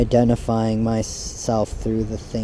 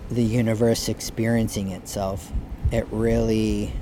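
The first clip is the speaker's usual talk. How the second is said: half asleep, words fading out; nodding off; 4 dB quieter than usual. Real, not acted. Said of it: "I'm falling asleep here".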